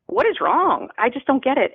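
husband's bewildered question, pitched high; baffled husband. Retold or imitated. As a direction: ask in high bewilderment, not getting it. Voicing husband's baffled question at bed.

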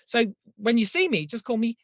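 ordinary talk

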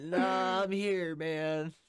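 high, loud drawn-out denial; retold loud reassurance. Drunk man back in barracks to roommate, acted loud reply. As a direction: replay it as a big holler.

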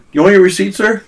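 high, polite cashier voice; imitating a drive-thru worker asking; bored fast food cashier. Voicing the cashier.

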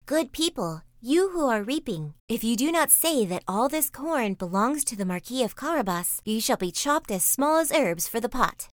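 lightly voiced cat laying down a threat; threatening cat. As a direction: warn them like a bossy cat.

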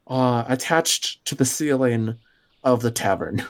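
measured scene-setting with suspenseful pauses; storyteller revealing a predicament in short phrases; game master narration. Acted. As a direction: unfold the scene bit by bit.

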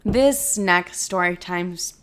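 normal talking voice

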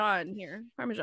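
"Parmesan" ending in soft ZHAHN; local pronunciation. Shown as a demonstration. Telling friends how we say it here, PAR-muh-zhahn. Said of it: "We say".

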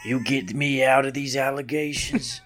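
drawled action-star pitch; lightly put-on tough guy, halting; Steven Seagal impression. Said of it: "If you do Steven Seagal's voice".

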